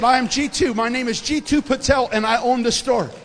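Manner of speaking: put-on loud, high Indian-accented announcement; proud-sounding Indian shop owner. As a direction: declare it emphatically in an Indian accent. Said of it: "this little guy from India who owns the store".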